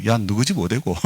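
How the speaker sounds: blunt Gyeongsang dialect question, lightly voiced. Pastor as a boy asking a Seoul child directions in Gyeongsang dialect. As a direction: ask it the rough Gyeongsang way, barely acted. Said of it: "경상도 말로".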